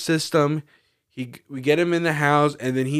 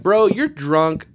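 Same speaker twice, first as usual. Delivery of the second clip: annoyed; 5 semitones higher, 5 dB louder, slower than usual. Retold or imitated. Annoyed at stumbling drunk friend.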